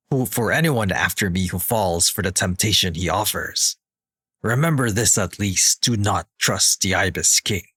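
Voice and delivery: measured, menacing villain read. Retold or imitated. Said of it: "I'll do my best villain voice".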